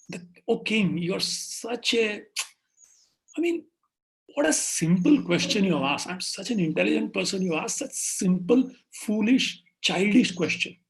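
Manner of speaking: loud-stressed, grandly indignant priest; scornful bluster. Acted. Priest bluffing to the king about his question, scornful bluster. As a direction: belittle it, punching the key words.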